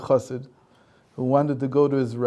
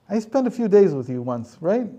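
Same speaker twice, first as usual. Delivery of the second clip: a higher, louder voiced devil, a touch gloating; sly Satan; 5 semitones higher, 3 dB louder than usual. Satan confronting the man on his way, higher and louder. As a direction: taunt him as the knowing devil.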